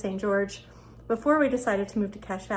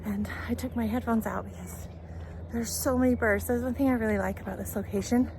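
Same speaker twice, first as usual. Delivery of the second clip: out of breath; breathless from jogging; shallow breathing. Real, not acted. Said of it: "Sorry, I'm out of breath".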